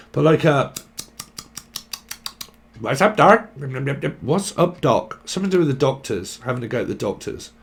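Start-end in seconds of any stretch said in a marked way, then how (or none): 2.8-5.2 tossing off a Bugs Bunny catchphrase. Retold or imitated. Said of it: "this is a fucking Bugs Bunny".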